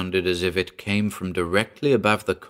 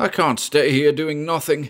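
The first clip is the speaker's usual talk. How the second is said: frantic, loud, high-pitched shout, beside himself; 8 semitones higher, 5 dB louder than usual. Arguing with a companion who wants them all to stay inside, shouted. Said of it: "Mason shouted".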